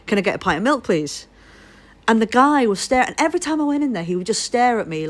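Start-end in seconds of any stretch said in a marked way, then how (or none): 0.1-1.3 attempted thick Northern English accent. Retelling a request to a South African shopkeeper, thick northern accent. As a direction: ask it in broad northern English. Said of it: "in a very thick northern accent".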